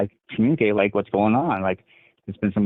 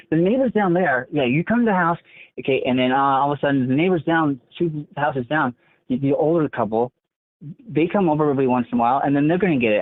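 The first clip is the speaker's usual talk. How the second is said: much higher, fretful mock brother; imitating paranoid brother; 5 semitones higher than usual. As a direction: rattle off the fear like a paranoid brother. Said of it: "He's like".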